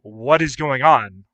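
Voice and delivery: amazed at the camera unravelling, slow and loud; slow stunned question. Retold or imitated. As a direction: draw it out, completely lost. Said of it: "I'm like".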